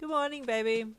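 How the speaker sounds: chirpy and upbeat; cheerful. A narrator's reading. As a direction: sing out a happy good morning. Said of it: "Hawks said cheerfully".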